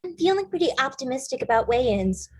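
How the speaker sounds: fast, sneering parrot of her words; rushed mocking echo of a rival; mocking imitation. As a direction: mimic her to belittle her. Jane mocks Kayla's words back.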